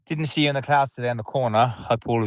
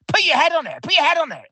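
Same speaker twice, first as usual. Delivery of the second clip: much higher yelled cry from the stands; mock yell at players; faster than usual. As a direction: shout it like the ball's coming in. Reliving yelling at the cross.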